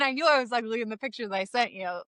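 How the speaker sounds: ordinary talk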